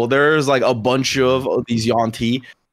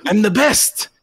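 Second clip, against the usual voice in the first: high boastful lizard whine; boastful whiny creature; 11 semitones higher than usual. Acted. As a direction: brag like a petty minion. Yuan-ti boasts in character.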